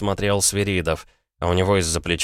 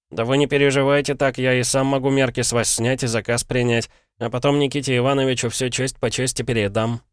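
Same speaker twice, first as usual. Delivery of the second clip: higher, lightly voiced young assistant; eager chattering lad; 6 semitones higher than usual. A narrator's reading. Shop lad soothes a displeased client, eager chatter. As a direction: chatter eagerly to placate the customer. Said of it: "Сразу же затараторил парень".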